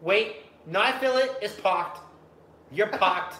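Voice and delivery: loud, high mock woman in bed; moaning woman. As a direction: ham it up high and loud, like she feels it. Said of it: "She's like".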